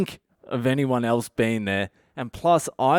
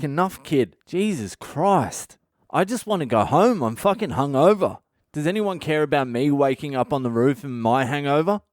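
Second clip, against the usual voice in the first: whiny exasperation; 3 semitones higher than usual. Retold or imitated. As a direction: plead to be left alone, hungover. Kid won't stop hugging.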